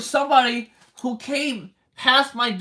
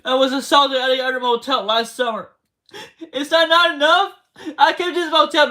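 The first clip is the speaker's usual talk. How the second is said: real crying. Real, not acted. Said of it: "Me crying right now".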